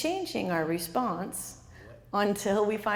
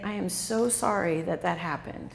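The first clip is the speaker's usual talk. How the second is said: sincere sympathy; 4 semitones lower than usual. Shown as a demonstration. Caregiver comforting a crying parent, sincere and gentle. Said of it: "you simply just say".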